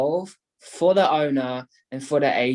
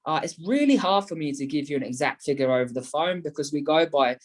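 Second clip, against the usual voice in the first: demo sales pitch. Shown as a demonstration.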